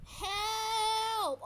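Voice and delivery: loud, high, wailing yell; dramatic cry for help. Real, not acted. Player losing energy in the water, dramatic cry for help. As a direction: call out as if going under. Calling out while swimming.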